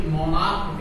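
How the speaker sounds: मोनार्क, its CH sounded as क. Shown as a demonstration. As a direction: say मोनार्क with a hard K at the end. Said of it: "सीएच का pronunciation क होगा".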